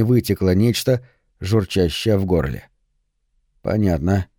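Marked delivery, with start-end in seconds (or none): 3.6-4.3 said softly and gently. Acted. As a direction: say it gently, calming him. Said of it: "мягко проговорил я".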